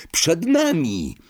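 high, drawn-out exclamation; narrated roar. A narrator's reading. Harry announces the castle ahead, drawn-out high cry. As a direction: stretch the call out, pitched high. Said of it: "ryknął Harry".

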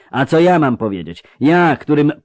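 mounting indignation of an affronted father; an acted, restrained roar of protest; booming, roaring outrage. A narrator's reading. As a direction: build through outraged rhetorical questions. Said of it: "zaryczał ten basowy dudniący".

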